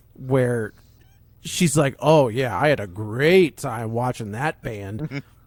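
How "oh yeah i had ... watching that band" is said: put-on bored, weary sarcasm, slow delivery. Retelling a character's line: imitating a sarcastic tone. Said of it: "this is the sarcasm".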